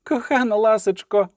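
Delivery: high, fond poet's voice; sincerely smiling. A narrator's reading. Poet on hearing of his pardon, fondly smiling. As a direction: say it with a smile. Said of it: "сказав Любисток, щиро всміхаючись".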